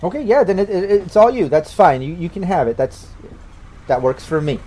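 easygoing official handing it over; Rainey, agreeable official. Acted. Official hands the business to new owners, lightly voiced and agreeable. Game master voices a character.

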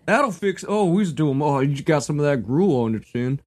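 lightly voiced rustic farmer; ancient Greek voice. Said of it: "my ancient Greek voice".

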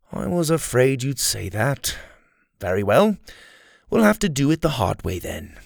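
a touch of false sadness in a villain voice; lightly voiced sorry villain; Kai, mild mock regret. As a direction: sigh it like he's sorry, but he isn't.

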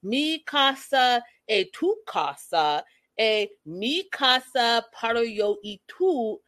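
"Mi casa e tu casa" said very slowly with a rising "tu"; slow, hammed-up toast imitation; mocking slow Spanish. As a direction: drawl each Spanish word slowly to tease the slow toast. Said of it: "unnecessary to speak slow".

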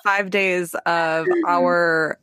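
measured, morphing New England accent; turning into New England accent. Shown as a demonstration. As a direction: drift gradually towards broad New England. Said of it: "slowly transform into".

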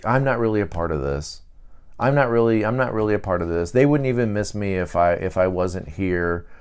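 soft and low, withdrawn; lonely inner voice. Retold or imitated. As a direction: murmur it like someone who feels left out.

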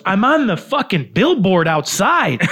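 high, slow-stretched mock shout; retold loud protest. Famous comedian refuses to confront a rude table, loud mock protest. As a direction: protest loudly as the famous friend.

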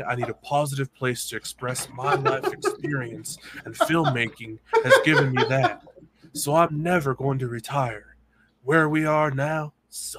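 lightly voiced Nicolas Cage, slow and emphatic; co-host dared him into a Nick Cage impression. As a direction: do your best Nick Cage read of the quote. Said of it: "Do your best, Nick Cage".

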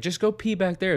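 high, loud mocking yell of the mom. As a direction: belt it out like the brash mom. Mom yelling at kids retold.

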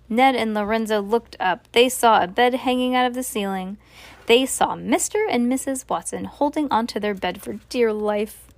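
ordinary delivery

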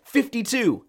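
loud, high shout of the number. Retold or imitated. Newcomer trying the joke-number trick, loud high shout. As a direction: belt the number out eagerly.

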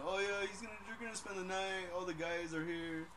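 lightly voiced reassuring parent on the phone; imitated friend's dad. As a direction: play a friend's dad covering for the boys.

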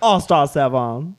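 put-on slow, laughing stab at a Cockney accent; mock Cockney accent. Podcast host trying a bad Cockney accent, laughing. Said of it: "it's Cockney".

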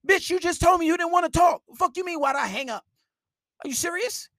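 outraged. Real, not acted. To the viewers, ranting at the girl who asked why he hung up, outraged. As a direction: blow up in disbelief.

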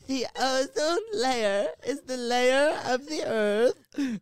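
mocking quote. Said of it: "He said".

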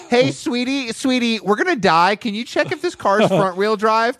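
high, frantic mock plea; mock panicked high voice. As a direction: squeak it out like a scared boyfriend. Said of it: "You're like".

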